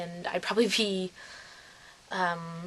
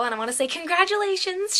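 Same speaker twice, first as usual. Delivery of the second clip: excited; 11 semitones higher than usual. Real, not acted. Excited shout-out to friend.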